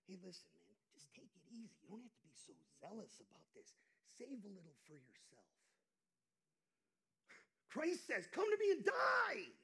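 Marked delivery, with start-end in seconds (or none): 0.0-5.5 soft, lower, easygoing voice of compromise; tempting voice. Acted. Inner voice urging a believer to ease off, soft and soothing. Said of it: "I've heard this voice that says". 8.3-9.5 much higher, loud fervent cry; proclaiming shout. Acted. Preacher crying out Christ's command to the congregation, loud.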